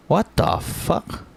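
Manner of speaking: breathy whisper of disbelief, slow. Real, not acted. Streamer whispering in disbelief at the screen. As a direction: hush it out in shock.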